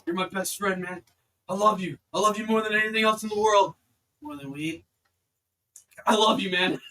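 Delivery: loud, high gushing buddy voice; loud, hammy best-friend gushing; over-the-top reunion. Acted. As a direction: ham up the tearful bro love. Player acts friend's emotional reunion.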